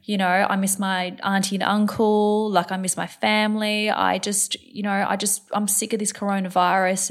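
a hint of a tearful child's voice; imitating sad child. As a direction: mimic a six-year-old missing everything. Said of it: "She's like".

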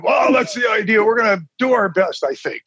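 high mock-Scottish doctor, dropping away at the end; bad Scottish accent. Patient re-enacting his doctor's reassurance, rough Scottish accent. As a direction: imitate a Scottish cardiologist, loosely. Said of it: "in a very thick Scottish accent".

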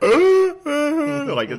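high, slow, breaking laugh; high laughing break while admitting he got emotional. Real, not acted. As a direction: laugh it out, half overcome. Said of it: "keep my composure and just not doing a very good job".

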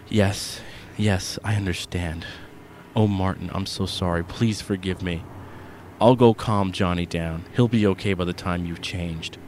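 quietly, shaken and sorry. Acted. Mother apologizing to her husband, soft and shaken.

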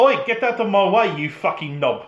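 mock South African heckle, starting high; hammed-up South African-accented fan. West Ham fan heckling a driver, mock South African accent.

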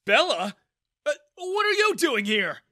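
father startled to find his daughter there; surprised. A narrator's reading. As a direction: caught off guard. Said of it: "Daniel asked in surprise".

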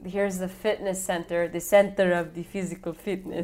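lightly mocked Italian accent; Massimo. Podcaster quoting the movie's Italian suitor, mock Italian accent. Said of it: "So Massimo says".

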